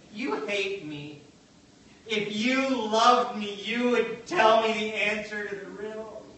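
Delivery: lightly hammed-up wife begging her husband; mock pleading wife. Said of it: "She pleaded, she begged".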